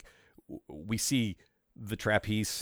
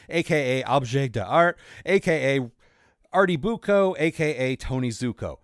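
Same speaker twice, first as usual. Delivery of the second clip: building comic outburst; 3 semitones higher, 6 dB louder than usual. Acted. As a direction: build each alias into a bigger outburst. Alias list building to climax.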